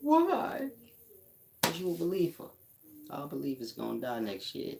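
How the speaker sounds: high, laughing tease; teasing believers through laughter; laughing mockery. Real, not acted. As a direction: squeal it while laughing. Mock prophecy through laughter.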